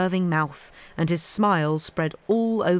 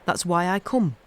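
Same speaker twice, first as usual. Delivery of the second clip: put-on Yorkshire boy's accent on the line, corrected. Shown as a demonstration. Narrator redoing Dickon's line in his Yorkshire accent. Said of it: "wrong la-, accent there".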